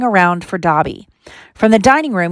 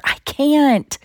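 high, strained helpless cry; desperate plea; 8 semitones higher than usual. A narrator's reading. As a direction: plead helplessly, pitch climbing high. Harry desperately begging the elf.

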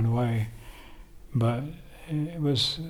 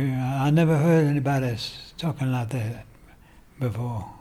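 Ali impersonation. Retold or imitated. Friend quoting what the boxer used to say, light impersonation. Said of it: "That's my, uh, Ali impersonation".

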